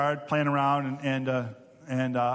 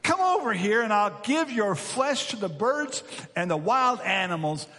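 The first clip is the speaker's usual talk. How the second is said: raised, forceful yell of a taunting giant; 4 semitones higher than usual. Acted. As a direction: call out the threat like Goliath. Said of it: "Goliath yelled".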